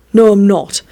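restrained sibling contradiction; stubborn refusal. Acted. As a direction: refuse without raising your voice much. First refusal in sibling quarrel.

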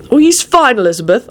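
light reassurance, starting high and settling; reassuring. A narrator's reading. Arthur to frantic Elizabeth about Lupin, reassuring. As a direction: reassure her lightly, dropping to an easy close. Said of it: "Arthur said reassuringly".

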